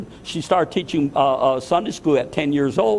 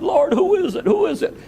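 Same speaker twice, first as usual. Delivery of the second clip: high, pleading cry of a question; tearful plea. Retold or imitated. Pastor retelling his vision, pleading with the Lord, near tears and high. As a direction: beg the answer through tears, voice rising high. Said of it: "I'm crying".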